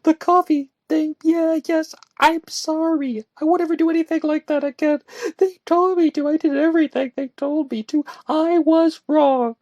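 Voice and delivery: high, loud indignant protest turning apologetic; huffing, then sorry. A narrator's reading. Woman defending herself to her friend, huffy. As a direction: huff at him, then plead. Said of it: "she huffed".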